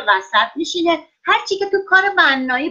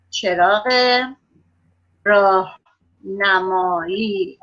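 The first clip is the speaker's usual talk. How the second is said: چراغ, a long pause, then راهنمایی drawn out; slow dictation; 4 semitones lower, slower than usual. Shown as a demonstration. Teacher dictating a word to pupils, slowly with a pause. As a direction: dictate slowly so the kids can write it.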